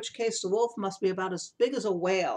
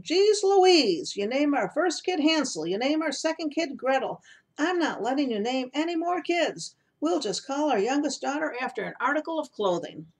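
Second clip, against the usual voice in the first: higher and louder, an exasperated dad putting his foot down; exasperated father; 7 semitones higher, 4 dB louder than usual. Retold or imitated. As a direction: play the fed-up father laying down the law. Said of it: "I can just picture the father".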